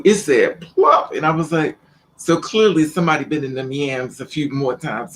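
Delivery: ordinary talk, nothing marked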